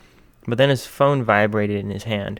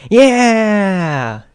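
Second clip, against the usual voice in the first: much higher, loud whooping yeah; cheering yell; 11 semitones higher, 10 dB louder than usual. Acted. Radio host cheering.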